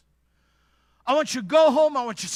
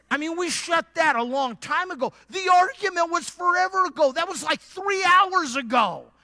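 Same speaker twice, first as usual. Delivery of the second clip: casual husband; 6 semitones higher, 3 dB louder than usual. Retold or imitated. Husband explaining the boxes.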